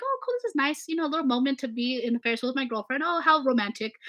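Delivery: high, airy mock-romantic gush; dreamy boyfriend on a Ferris wheel, mock romantic. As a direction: play it sweet and carefree before the drop. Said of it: "we're going and like".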